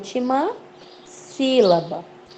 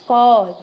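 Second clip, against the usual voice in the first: "córrego" with its first syllable punched louder; stress on CÓ; 6 dB louder than usual. Shown as a demonstration. Teacher showing a stronger accent, "có" punched in "córrego". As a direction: hit the "có" of "córrego" hard. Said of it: "também acento mais forte".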